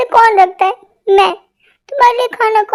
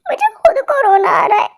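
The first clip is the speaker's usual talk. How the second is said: laughing; 4 semitones higher than usual. Acted. Husband laughs at his own plight.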